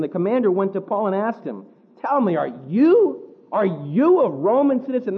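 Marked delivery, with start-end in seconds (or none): 2.0-5.2 incredulous question. Retold or imitated. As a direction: ask it like you can't believe it. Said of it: "That's the inflection there".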